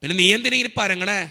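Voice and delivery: father's mounting questioning; insistent father. Retold or imitated. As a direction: demand to know what is wrong. Father questioning his son.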